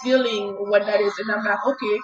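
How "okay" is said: rattled off fast, defiant; fast defiant self-talk. Retold or imitated. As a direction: fire it back at your fear, quickly. Fast defiant inner talk to fear.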